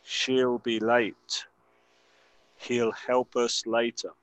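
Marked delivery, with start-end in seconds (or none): 2.6-4.1 slow model. Shown as a demonstration. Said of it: "escuchar la pronunciación".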